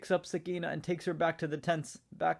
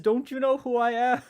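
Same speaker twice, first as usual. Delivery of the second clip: higher and louder, proud and defiant; a daughter of Ali standing her ground, raised and fierce; defiant threat; 4 semitones higher, 3 dB louder than usual. Acted. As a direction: warn the rider off with fierce pride. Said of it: "She says".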